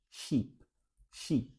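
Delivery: sheep with wide spread lips, long ee; sheep, lips stretched. Shown as a demonstration. Teacher shows spread lips for sheep. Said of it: "a boca se esparrama bastante".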